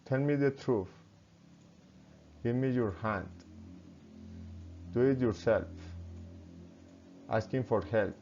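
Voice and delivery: commands dropping in pitch at the end; falling intonation. Shown as a demonstration. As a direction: let "truth", "hand", "yourself", "help" fall. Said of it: "Commands, falling intonation".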